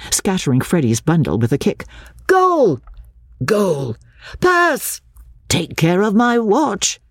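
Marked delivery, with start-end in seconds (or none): 2.3-7.0 high, eager shouts of play; excited cries. A narrator's reading. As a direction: call out in the heat of the game. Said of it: "cried Mister Beebe".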